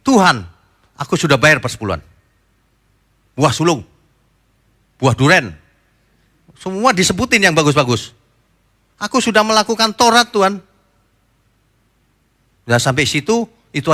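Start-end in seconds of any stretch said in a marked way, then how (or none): 0.0-10.6 proud, raised voice, bragging to God; boastful scribe praying. Retold or imitated. Scribe at the front boasting to God, proud. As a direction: puff up and list your good deeds to God. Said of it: "dia ngomongnya begini".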